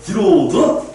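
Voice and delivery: parade-ground about-turn command; military command. Retold or imitated. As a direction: call the about-face like an army drill order. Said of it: "군대에서 이런 걸 자주 하거든".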